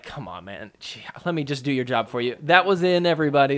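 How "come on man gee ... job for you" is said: mock exasperated referee. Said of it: "Ref's like".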